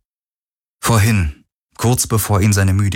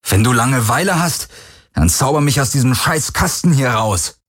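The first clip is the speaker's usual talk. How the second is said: higher, sarcastic jab; bitter sarcasm; 5 semitones higher than usual. Acted. Garland mocking the silent Helix with bitter sarcasm. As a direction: needle it bitterly.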